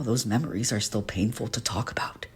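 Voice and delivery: whispered, the memory still stinging; a whisper of old pain. Acted. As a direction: let the words drop to a hurting whisper. Painful confession of past bullying.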